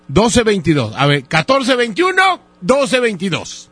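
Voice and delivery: slow, deliberate phone-number correction; careful dictation. Real, not acted. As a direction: spell out the digits slowly for someone who misheard. Corrects misheard phone number for listener.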